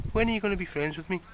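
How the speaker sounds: high, quick pet-talk plea. Real, not acted. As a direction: rush it up high, coaxing.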